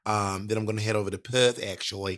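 casual Australian accent, low-pitched. Shown as a demonstration. Impersonating an Australian for the podcast host, Australian accent. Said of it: "my Australian accent".

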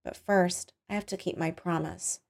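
hushed, calm menace; softly. A narrator's reading. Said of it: "she said softly".

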